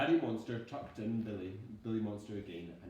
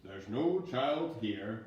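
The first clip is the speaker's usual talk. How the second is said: soothing; 7 dB louder, much slower than usual. Acted. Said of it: "he soothed".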